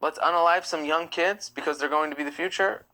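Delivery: mock-earnest absurd proposal; incredulous mock question; sarcastic suggestion. Mockingly voices an absurd motive.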